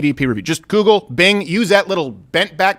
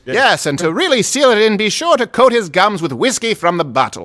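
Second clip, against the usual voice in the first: chipper 1950s ad; 4 semitones higher than usual. Acted. Mock old-time ad.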